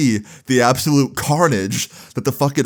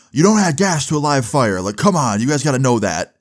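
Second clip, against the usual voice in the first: mild scolding; 2 semitones higher than usual. Retold or imitated. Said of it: "chewed out by the cop and by the fire".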